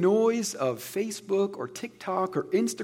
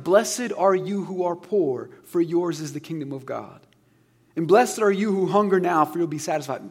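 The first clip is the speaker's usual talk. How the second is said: scripture reading; 3 dB louder than usual. Acted. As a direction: read it like a preacher quoting Jesus, unhurried. Reading Jesus' words aloud.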